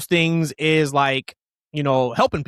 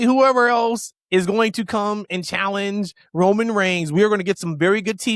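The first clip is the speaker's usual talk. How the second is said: higher, punchy, mock apology; raised, fast newsflash; defiant announcement; 3 semitones higher than usual. Real, not acted. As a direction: call out the doubters.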